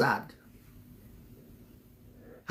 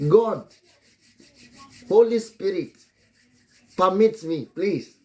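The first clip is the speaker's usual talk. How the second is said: pleading prayer; 6 semitones higher, 3 dB louder than usual. Real, not acted. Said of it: "I'm just praying".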